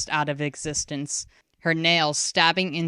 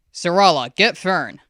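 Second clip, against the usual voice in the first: louder firm order; 2 semitones higher, 8 dB louder than usual. A narrator's reading. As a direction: snap out the command. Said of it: "Hyaktu ordered".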